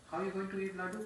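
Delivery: playfully testing parent; coaxing father. Acted. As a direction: question a stubborn child. Father coaxing stubborn child.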